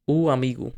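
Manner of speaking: "o amigo" with a brief stop between the vowels; glottal stop. Shown as a demonstration. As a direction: cut the airflow between "o" and "amigo". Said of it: "You can see a pause in between".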